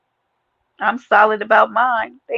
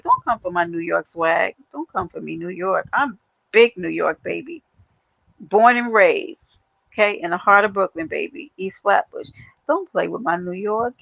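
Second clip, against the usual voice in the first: mock offense. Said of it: "only thing I got pissed off about".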